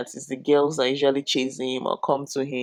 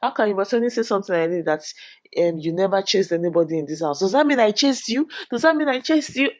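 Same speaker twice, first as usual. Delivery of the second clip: higher-pitched indignant retelling; mock angry; 4 semitones higher than usual. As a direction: build to outraged questions, imitating her. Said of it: "She was just angry".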